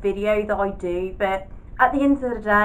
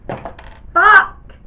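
surprised curse; 8 semitones higher, 7 dB louder than usual. Real, not acted. Startled by palette colours.

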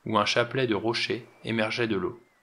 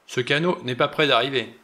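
irritated, impatient; 3 semitones higher, 5 dB louder than usual. Acted. General cutting in impatiently on the men. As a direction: snap it out, fed up with waiting. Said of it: "Une voix irritée, impatiente".

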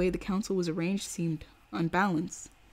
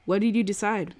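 thin reedy voice; 2 semitones higher, 3 dB louder than usual. Acted. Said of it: "piped up in a re-, reedy quiver".

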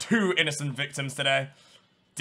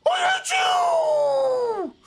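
much higher, loud, slow, wailing yell; furious shriek; 4 dB louder, much slower than usual. Real, not acted. Streamer shrieking at a player who escaped. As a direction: scream it at the fleeing player.

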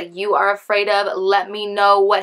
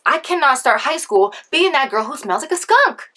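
mock panic, pitched up; higher, acted-out dread; retold freak-out; 5 semitones higher than usual. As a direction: dramatize a teenage freak-out. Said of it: "So I'm freaking out".

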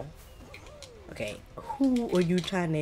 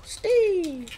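high, loud call of the name; shouting; 6 dB louder than usual. Real, not acted. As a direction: yell it out in frustration. Yelling at game character again.

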